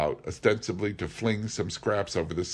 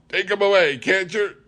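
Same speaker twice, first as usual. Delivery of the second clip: much higher, loud begging shriek; panicked plea; 13 semitones higher, 9 dB louder than usual. A narrator's reading. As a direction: beg the crowd to stop it. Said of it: "he cried".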